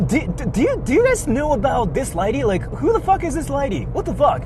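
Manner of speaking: high parody of a flustered rude tourist; mocking outraged tourist. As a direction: play him rallying his friends indignantly. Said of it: "talking to other tourists saying".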